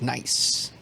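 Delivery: a relaxed, quiet nod of approval; cool nod. Acted. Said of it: "gives you a chin up and is like".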